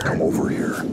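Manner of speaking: whispered summons; coaxing whisper. Real, not acted. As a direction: whisper it to lure something closer. Coaxing the fish closer, whispered.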